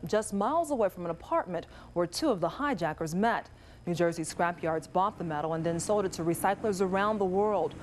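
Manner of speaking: steady, measured newscast delivery; news anchor read. Acted.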